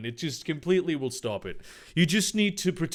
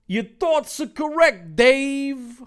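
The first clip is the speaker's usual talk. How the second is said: monster voice; 11 semitones higher, 6 dB louder than usual. Acted. The monster speaks telepathically.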